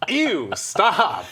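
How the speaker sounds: high squeaky disgusted yelp; mock Link voice. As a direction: whine it like a grossed-out cartoon hero. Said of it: "This is like".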